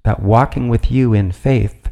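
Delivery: formal, measured prayer read aloud; steady liturgical reading. Acted. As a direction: address the Lord in a firm, even voice. Reads a prayer from a book.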